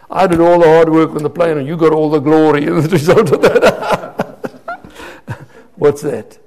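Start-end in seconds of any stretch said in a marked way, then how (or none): 0.1-3.8 loud complaint dissolving into laughter; laughing mock complaint. Preacher ribbing his twin over the glory, laughing mock complaint. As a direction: grumble jokingly, then crack up.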